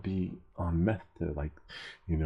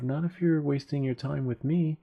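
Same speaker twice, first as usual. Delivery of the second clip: high-pitched mock protest; retold indignant comeback; 8 semitones higher, 3 dB louder than usual. Cyclist talks back to officer, mock indignant. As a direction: act out talking back to the cop.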